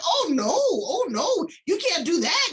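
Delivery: mimicking the guest. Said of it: "She said".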